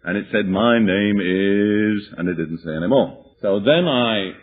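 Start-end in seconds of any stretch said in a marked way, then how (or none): 0.5-2.1 a lightly voiced gruff demon, very slow and dragged out. Demon answering the preacher, slow and lightly gruff. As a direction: stretch each word like a reluctant demon. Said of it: "deep, harsh, gruff, masculine-sounding voice".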